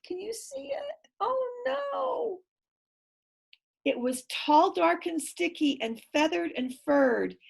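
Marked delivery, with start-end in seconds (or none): 0.1-2.4 high, breathless whisper; suspense whisper. Real, not acted. Reader whispering to the child as the beast rises. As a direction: hush it in spooky suspense.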